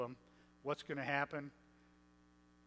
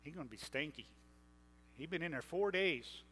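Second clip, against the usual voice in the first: wry Martha. Retold or imitated. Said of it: "Martha says".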